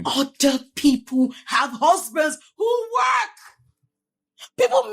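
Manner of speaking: slow, tearful shout; crying shout. Acted. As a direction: let the tears break through the anger. Wife breaks down arguing.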